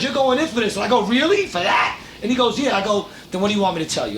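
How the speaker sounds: heated retelling of the cop scene; animated retelling. Retold or imitated. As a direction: replay the standoff with rising energy. Retelling cop exchange, raised.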